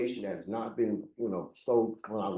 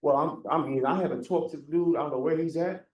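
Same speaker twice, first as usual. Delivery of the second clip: raised, higher-pitched protest; louder and higher, pushing the point across; real agitated complaint, pitched up; coming on at full intensity; 5 semitones higher, 4 dB louder than usual. Real, not acted. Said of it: "you're coming at me at a hundred".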